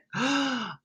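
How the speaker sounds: a high, breathy gasp of shock; high sharp mock gasp. Viewer watching a video, high startled gasp. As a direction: gasp like the penny just dropped.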